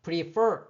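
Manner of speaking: prefer with the second syllable stressed; stress on last syllable. Shown as a demonstration. Teacher repeating the example word, pre-FER. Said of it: "이렇게 뒤에 이의 강세가 있어요".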